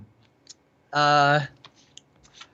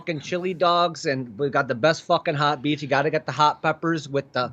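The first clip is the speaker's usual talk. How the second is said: ranting in a Chicago accent; emphatic Chicago local's accent. Shown as a demonstration. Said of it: "that's what Chicago's like".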